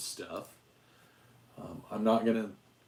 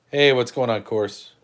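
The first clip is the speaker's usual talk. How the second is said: excited dog greeting; 4 semitones higher, 15 dB louder than usual. Real, not acted. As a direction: gush over the stinky puppy. Calling excitedly to the dogs.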